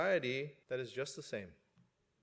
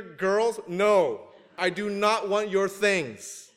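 mock refusal; 5 semitones higher, 6 dB louder, much slower than usual. Parent refusing teen daughters' worries.

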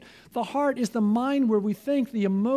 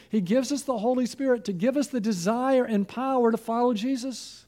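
usual speaking voice

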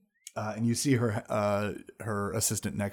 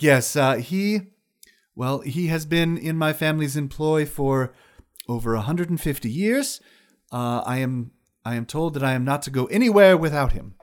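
high wizard lady voice; 4 semitones higher, 5 dB louder than usual. Acted. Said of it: "He's like".

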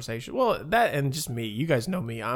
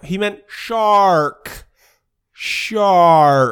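put-on Boston accent; 5 semitones higher, 12 dB louder, much slower than usual. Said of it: "I would've been like".

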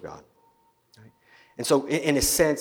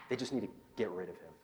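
soft hushed gossip among the crowd; whispering crowd; 3 semitones lower, 10 dB quieter, faster than usual. Retold or imitated. People in the crowd whispering about the prophet, hushed. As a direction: lean in and murmur it low.

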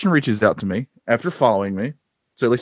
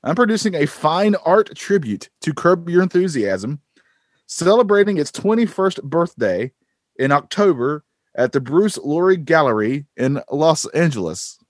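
put-on Australian accent; 4 semitones higher than usual. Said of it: "I'm quoting this person".

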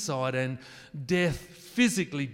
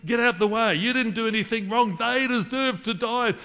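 much higher and louder furious command; angry Father; 9 semitones higher, 7 dB louder than usual. Pretend. Angry Father orders Jesus out of the way, loud fury. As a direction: shove Jesus aside in a rage. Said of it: "the Father's there going".

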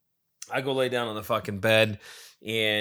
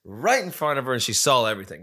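imitating an excited friend, higher at first; excited retelling; 4 semitones higher than usual. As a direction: blurt it like a thrilled buddy, then settle. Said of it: "he was so excited".

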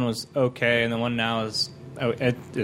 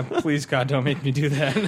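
laughing mock plea; 3 semitones higher than usual. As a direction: beg jokingly through laughter. Joking plea amid shared laughter.

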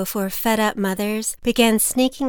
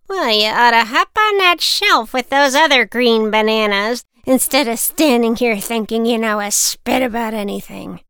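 put-on louder, tart old lady put-down; scolding old woman; 3 semitones higher, 6 dB louder than usual. Old woman cutting the rude boy down, louder. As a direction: slap him down with words.

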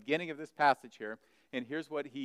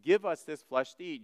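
raised, mildly indignant question; sharp arguing; 4 semitones higher, 4 dB louder than usual. Retold or imitated. People argue among themselves over eating flesh, sharply. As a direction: imitate someone disputing in disbelief. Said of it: "They began to argue sharply".

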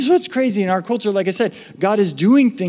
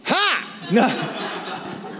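laughing; 5 semitones higher, 4 dB quieter than usual. Real, not acted.

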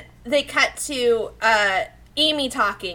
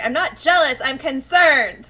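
a high, drawn-out indignant protest; huffy denial; 4 semitones higher, 5 dB louder than usual. Retold or imitated. Serena huffing at Luna that she's only concerned. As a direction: insist you're merely concerned, slowly.

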